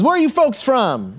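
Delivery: a stranger's hearty hello to visitors; very friendly. Retold or imitated. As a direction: greet the strangers like old friends. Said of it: "in a very friendly voice".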